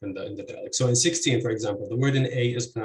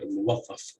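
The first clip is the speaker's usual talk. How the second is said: "muwattaf" with stress on its third syllable; 2 semitones lower than usual. Shown as a demonstration. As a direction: put the beat on the final syllable of "muwattaf". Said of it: "the stress would be on".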